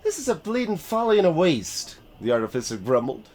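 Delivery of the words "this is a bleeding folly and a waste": put-on Yorkshire accent. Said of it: "in a thick Yorkshire accent".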